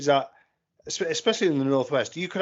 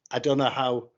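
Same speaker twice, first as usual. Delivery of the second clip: Lancashire accent. Shown as a demonstration. Showing friends the talk over the bridge in Widnes, Lancashire accent. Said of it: "you'd have a Lancashire accent".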